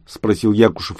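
usual speaking voice

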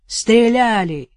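slow, loud called shout. Acted. Арсений кричит соседке у забора, громкий крик. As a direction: call it across the yard. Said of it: "крикнул Арсений".

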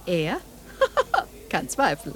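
laughing it out with scorn; mocking laugh. Widow laughing at the uncle, mocking. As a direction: chuckle through the words.

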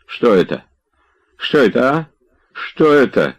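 stunned questions, rising in pitch; breathless shock. A narrator's reading. Slapped Tarantyev asks what this is, gasping. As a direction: repeat it aghast, short of breath. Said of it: "задыхаясь, говорил он".

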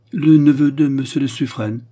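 astonished, emphatic answer; startled reply. A narrator's reading. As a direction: confirm it forcefully, taken aback. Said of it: "de plus en plus saisie du changement".

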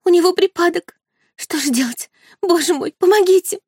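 high, panicked plea for help; panicked cry. A narrator's reading. Мэрит в панике. (испуганный высокий крик о помощи)

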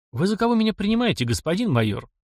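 offended challenge, starting high and dropping; steely indignation. A narrator's reading. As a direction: demand it with metal in the voice. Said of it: "Голос Григория лязгнул металлом".

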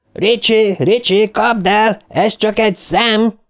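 very high, frantic urging; urgent yelling. A narrator's reading. Eddie urges Richie to attack. (sürgető, magas kiabálás)

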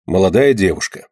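usual speaking voice

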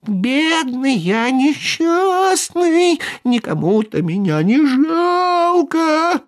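high, slow, whining little voice; plaintive thin whimper. A narrator's reading. Buratino whines between the sneezes, plaintive and thin. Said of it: "подвывать жалобным тоненьким голоском".

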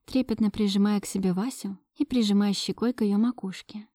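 plain reading voice

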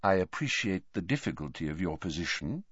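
put-on calm the boy down; kindly old wizard, unhurried; gentle old headmaster. Dumbledore soft reply.

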